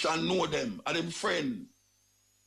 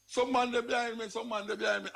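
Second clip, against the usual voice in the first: higher-pitched mock cry for help; retold bawling out; 8 semitones higher than usual. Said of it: "start to bawl out".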